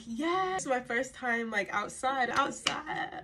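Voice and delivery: high, giddy retold cheer; re-enacted excitement. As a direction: act out tipsy thrill at going out. Re-enacts tipsy excitement at going out.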